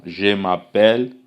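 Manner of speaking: slow French "Je m'appelle", zhuh mah-PELL with a rise; French model phrase. Shown as a demonstration. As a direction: say "m'appelle" slowly and clearly. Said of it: "Então".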